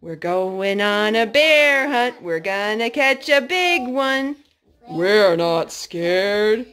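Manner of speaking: sing-song read refrain; bright picture-book reading; storybook refrain. Acted. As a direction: chant it for the toddler.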